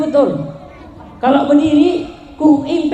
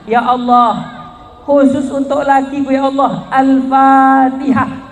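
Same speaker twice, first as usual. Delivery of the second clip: showy prayer. Shown as a demonstration. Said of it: "Bukan begitu caranya".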